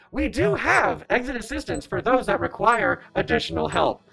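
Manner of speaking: raspy robot voice. A narrator voices a robot answering a question about exits, in a robot voice. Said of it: "The robot says".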